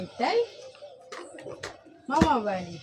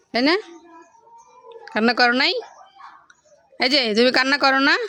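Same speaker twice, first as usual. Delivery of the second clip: playful teasing; 4 semitones higher, 6 dB louder than usual. Real, not acted. Mother teasing her little daughter.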